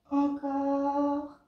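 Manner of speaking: « Encore » lancé fort pour motiver; encouragement fort. Real, not acted. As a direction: pousse l'élève avec un « Encore » sonore. Coach urges repeated reps. (encouragement énergique)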